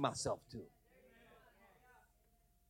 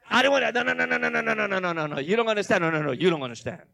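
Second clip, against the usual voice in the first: whining protest; 3 semitones higher, 7 dB louder, faster than usual. Retold or imitated. Pastor protesting to God like a whiny child. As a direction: whine like a child refusing.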